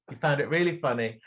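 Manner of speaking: fast, through a laugh. Acted. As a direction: rush it out laughing at him. Accusing, then repeats laughing.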